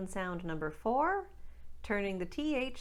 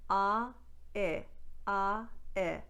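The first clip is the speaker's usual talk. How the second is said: "Ah" then "I" glided into "I"; plain American I diphthong; standard American I; much slower than usual. Shown as a demonstration. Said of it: "In standard American".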